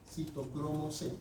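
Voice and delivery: slow and measured on "Citocromo C"; slow, careful repetition. Real, not acted. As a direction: spell out "Citocromo C" unhurriedly for students to catch. Teacher repeats term slowly for class.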